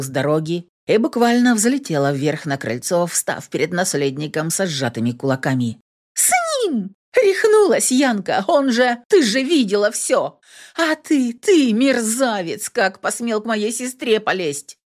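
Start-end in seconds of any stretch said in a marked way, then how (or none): 6.1-14.8 high, furious tirade. A narrator's reading. Lilka rages at her sister and the heir. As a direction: rage at the scoundrel.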